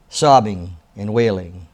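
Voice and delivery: reading aloud with emphatic, fuller voice; inspirational reading. Acted. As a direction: read the excerpt like a heartfelt devotional. Reads book excerpt aloud.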